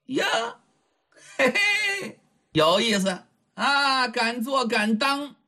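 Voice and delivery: high snicker then slow teasing words; a playboy amused by her nerve; mock-admiring young rake, drawn out; sly rake. Lecher mocks the bold girl.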